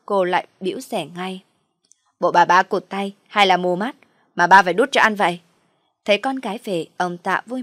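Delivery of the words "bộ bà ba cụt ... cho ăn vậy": loud, scornful jab at the stepmother; angry sneer. Acted. Daughter scolds father for feeding stepmother, loud and scornful. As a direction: snap at father in contempt.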